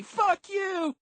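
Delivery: loud, piercingly high yell. A narrator's reading. Quendy cursing at the collapsed girl, yelling. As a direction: shriek the curse at full pitch. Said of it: "Quendy was still yelling".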